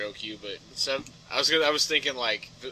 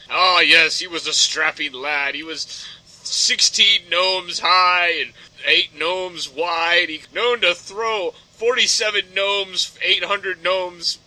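slow, louder bardic boast; a hint of a tavern tale-teller; olde storyteller; 3 semitones higher, 6 dB louder, much slower than usual. Friend spinning an old-timey legend in gnomes, slow and loud. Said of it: "olden days".

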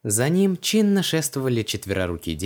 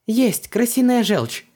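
high, loud, drawn-out exclamation; triumphant discovery; 12 semitones higher, 5 dB louder, slower than usual. A narrator's reading. Heroine finds the ingredient on a shelf, triumphant. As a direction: call out slowly that you found it.

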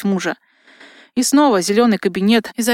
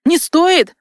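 sharp, much higher outraged cry; angry roar; 8 semitones higher than usual. A narrator's reading. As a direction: roar it back in disbelief. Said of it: "снова взревел цесаревич". (яростный рёв, намного выше)

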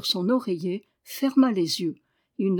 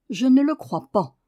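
higher, louder, tart denial; sour retort; 4 semitones higher, 6 dB louder than usual. A narrator's reading. Girl sourly refusing to believe the boy, tart. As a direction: bite the words off sourly. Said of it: "dit aigrement Marie".

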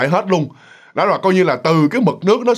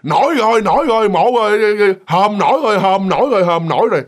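excited shout; 4 semitones higher, 3 dB louder than usual. Retold or imitated. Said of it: "người ta ở dưới ta la lên".

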